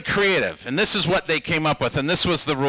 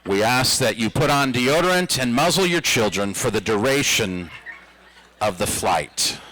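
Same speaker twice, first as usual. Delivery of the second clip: flight attendant announcement; 5 semitones lower than usual. Retold or imitated. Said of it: "hear the flight attendant come on the intercom".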